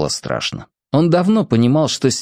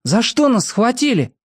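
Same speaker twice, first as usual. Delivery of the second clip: repeating her words; 11 semitones higher than usual. A narrator's reading. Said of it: "повторил её слова".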